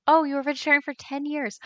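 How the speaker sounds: high, loud burst of amazement; really taken aback, pitch lifted throughout; impressed surprise. Real, not acted. Streamer hears viewer was vegetarian ten years, surprised.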